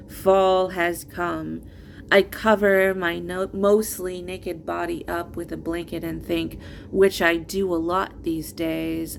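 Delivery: measured, earnest spoken-word delivery; poetry reading. Acted. Poet reading first book to listeners, earnest recital. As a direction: read it as a personal poem, line by line. Reads own poems aloud.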